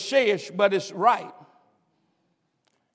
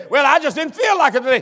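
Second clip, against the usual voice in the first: wife's excuse; faster than usual. Retold or imitated. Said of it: "she's gonna say".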